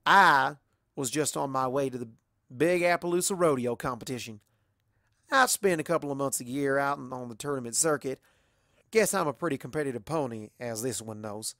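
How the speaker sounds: lightly voiced country pony; easygoing storyteller, in character; a hint of a competitive rodeo pony; Applejack telling her tale.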